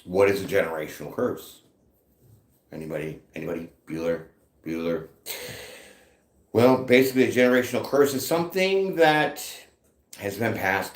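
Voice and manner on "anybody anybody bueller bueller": low, soft deadpan question to a silent room; deadpan film-teacher drone; droning roll-call. Retold or imitated. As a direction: call out quietly into the void, expecting no answer. Mimicking teacher calling into silent room.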